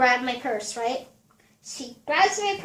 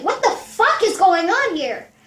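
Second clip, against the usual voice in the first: raised, bewildered outburst; a blindsided friend asking what is happening, higher; blindsided disbelief; 5 semitones higher, 3 dB louder than usual. Retold or imitated. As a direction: caught off guard, pitched up. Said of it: "I got blindsided".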